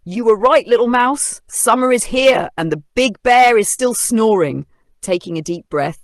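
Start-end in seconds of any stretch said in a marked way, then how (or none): 0.0-4.7 chuckling. A narrator's reading. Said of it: "The lion chuckled".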